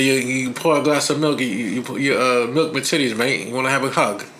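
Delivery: horribly botched put-on accent; amateur accent impression, stumbling then rattling off the brush-off; Butcher's accent, badly faked. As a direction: play at a foreign accent, haltingly. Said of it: "That's a horrible accent".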